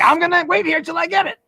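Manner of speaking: imitating a pushy Philadelphia customer; Philly guy impression. Philadelphia man announcing to the crowded shop. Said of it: "he announced everything he was gonna do".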